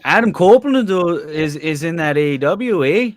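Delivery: put-on Canadian accent. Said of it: "he's going Canadian".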